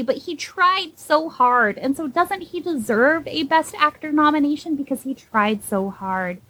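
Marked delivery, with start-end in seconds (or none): 0.0-4.1 lightly mocking, dragged-out pity; mock sympathy. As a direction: drag out the fake excuse. Sarcastic defense of Corden.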